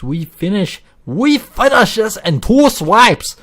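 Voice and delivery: a hammed-up Asian accent, sing-song and loud; mock Asian accent. Nearly done with the field, blurting a mock Asian accent. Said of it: "I don't know why I went full Asian there".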